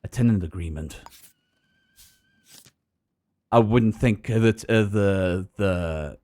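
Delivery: noir detective. Acted. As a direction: muse like a tired private eye. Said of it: "we love the noir voice".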